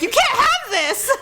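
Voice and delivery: high, slow mock scolding; upset mom imitation. Imitating mom taking away knife, upset and scolding. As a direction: imitate a mother laying down the law.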